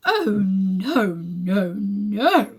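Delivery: loud shocked protest. Acted. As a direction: protest in mock outrage. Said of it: "in a shocked voice".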